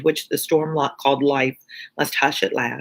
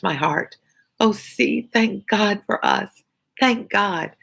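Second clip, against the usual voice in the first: a lightly voiced young daughter, pleading tenderly, a bit higher; Lucie pleading; 3 semitones higher than usual. Lucie's thankful plea.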